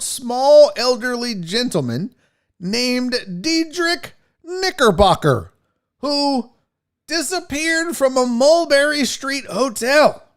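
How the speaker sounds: slow, measured hint of a British accent; slipping into British accent. Real, not acted. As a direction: read aloud, drifting into a British accent. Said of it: "slowly fading into a British accent".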